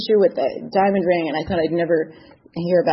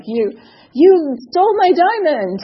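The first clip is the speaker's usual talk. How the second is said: accusing; 9 semitones higher, 5 dB louder, slower than usual. Retold or imitated. Accusing the jeweler.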